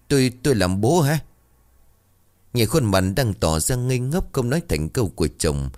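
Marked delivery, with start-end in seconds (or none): 0.1-1.2 higher, louder stammering disbelief; stunned surprise. A narrator's reading. Husband learning his wife is pregnant, stunned and stammering. Husband hears he'll be father.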